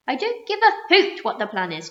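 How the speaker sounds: loud, high defiance; defiant cry. A narrator's reading. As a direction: refuse outright. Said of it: "cried the Earthworm".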